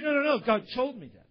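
mock-insistent comeback; insistent retort. Acted argument, man insists God told him.

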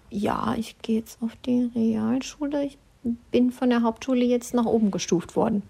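a sheepish, half-whispered daughter; awkward daughter. Retold or imitated. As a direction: mumble it like an embarrassed girl. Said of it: "ganz unangenehm so". (verlegen murmelnde Tochter)

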